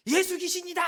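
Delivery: high, loud startled yell of fear; frightened cry. Acted. Disciples shrieking at the sight of a ghost, terrified.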